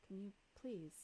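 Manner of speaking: overdone polite cabin-crew voice; flight attendant. Acted. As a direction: try too hard to sound like crew. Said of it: "now you're trying too hard".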